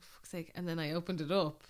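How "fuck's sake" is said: muttered aside. Retold or imitated. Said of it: "I was like".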